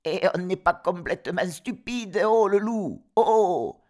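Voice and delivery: cris aigus et forts d'enfants; démasquer le loup en criant; chevreaux qui crient. Acted. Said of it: "crièrent-ils". (chevreaux criards)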